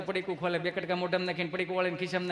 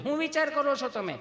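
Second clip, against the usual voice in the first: nurse voice; 7 semitones higher than usual. Retold or imitated. Teller voicing the nurse.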